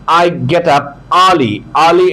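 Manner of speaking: very slow, every word clear; slow demo. Shown as a demonstration. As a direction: read it slowly for the student. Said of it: "আরটা উচ্চারণ হবে না". (ধীরে ধীরে উচ্চারণ)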